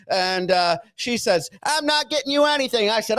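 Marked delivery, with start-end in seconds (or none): 1.6-2.9 high-pitched, stubborn woman's retort; mock angry refusal. Staff woman refusing a demanding patient, mock defiant. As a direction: dig in, imitating her raised pitch.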